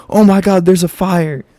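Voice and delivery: lighter retold startled "Oh my God"; mock panicked shriek. Retelling the funny moment, mock startled cry. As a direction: echo her alarm while still laughing about it. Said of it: "she jumped up and was like".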